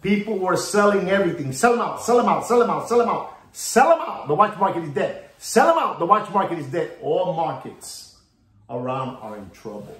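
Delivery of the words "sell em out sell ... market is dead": high frantic chant of panicked traders; mock panic, pitched up and urgent; panicked sellers. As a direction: mimic the whole market screaming to dump stock. Panicked sellers voiced in market crash.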